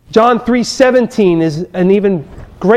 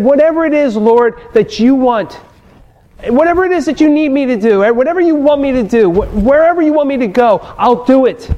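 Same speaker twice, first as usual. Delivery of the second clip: pleading prayer; 4 semitones higher, faster than usual. Retold or imitated. Retold earnest prayer.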